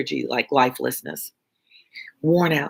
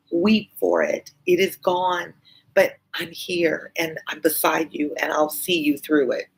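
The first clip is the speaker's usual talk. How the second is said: Lucie pleading. Acted. Lucie consoling her father.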